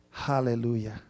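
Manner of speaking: loudly called Hallelujah; loud praise. Real, not acted. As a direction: call it out to the whole congregation. Calls out praise to congregation.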